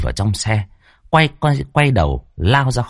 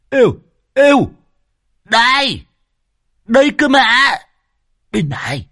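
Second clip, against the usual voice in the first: much higher and louder calling out; cheerful shout; 4 dB louder than usual. A narrator's reading. Old Hói calls out to the arriving men, high and loud. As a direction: hail the arrivals across the lane. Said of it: "lão đã reo lên".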